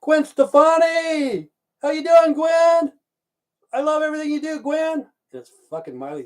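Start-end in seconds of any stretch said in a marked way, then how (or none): 0.0-4.9 put-on high, slow drunk fan yelling a name; drunk rapper impression. Drunk rapper mistaking one singer for another, high slow gushing yell. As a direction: imitate a wasted celebrity gushing far higher and slower. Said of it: "He's going".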